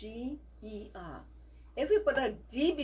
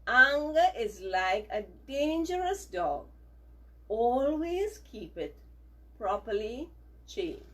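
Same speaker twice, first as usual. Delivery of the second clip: slow choral reading pace; slow read-along with children; reading together; slower than usual. Shown as a demonstration. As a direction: lead the class through it slowly. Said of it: "Let's read it again together".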